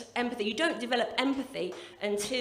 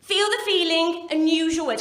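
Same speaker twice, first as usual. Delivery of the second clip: posh gentle-parenting mum; 4 semitones higher, 6 dB louder, slower than usual. Retold or imitated. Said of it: "all I could hear was".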